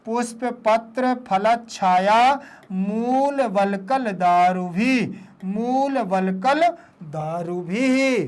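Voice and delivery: linked words, phrase endings drawn out; connected recitation. Shown as a demonstration. Teacher leads pupils through the line, connected recitation. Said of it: "पढ़ते जाना है".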